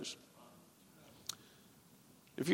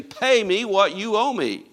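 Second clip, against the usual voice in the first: demanding servant; 4 semitones higher, 4 dB louder, slower than usual. Acted. Preacher acts out choking servant.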